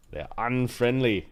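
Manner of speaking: slow, weighty scene setting, sinking at the end; game master narration. Acted. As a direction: draw it out like an ominous storyteller. Game master sets the arena scene.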